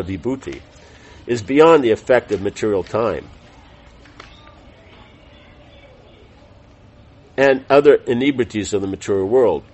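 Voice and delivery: measured reading of a religious text; formal read-aloud. Real, not acted. Teacher reading scripture summary to class, formal read-aloud. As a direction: read it out clearly, phrase by phrase.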